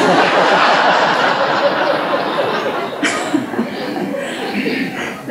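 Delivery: long, airy laugh trailing upward; long breathy laugh. Real, not acted. Speaker laughing at her own story with the audience, long and breathy. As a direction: let a long laugh roll out. Remembering the dramatic pauses compliment.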